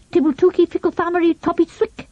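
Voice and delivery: deadpan nonsense language, said as if it were real; boy speaking made-up language, straight-faced; solemn nonsense. A narrator's reading. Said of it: "he said quite solemnly".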